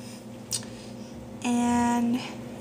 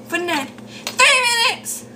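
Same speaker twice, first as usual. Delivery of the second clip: surprised; 9 semitones higher than usual. Real, not acted. Shocked at video length.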